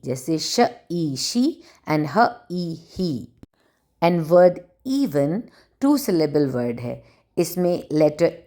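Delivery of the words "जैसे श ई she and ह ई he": श and ई said apart, then joined into she; teacher blending sounds for beginners; sounding out. Shown as a demonstration. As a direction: blend the sounds slowly into the word. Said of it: "vowel अपनी long sound बोलेगा ई".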